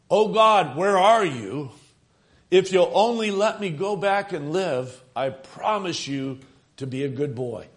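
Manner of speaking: pleading cry. Retold or imitated. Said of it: "I just screamed out".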